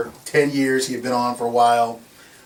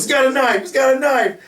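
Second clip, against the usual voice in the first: much higher, louder mock scream; panicked screaming; 12 semitones higher, 5 dB louder than usual. Bystander with camera screaming at the floor, mock panicked scream. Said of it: "and goes".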